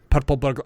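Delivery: "Purple burglar" with tapped R's, breaking off. Shown as a demonstration. Teacher fails at the phrase, tapped R in "Purple burglar". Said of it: "now I can't do it".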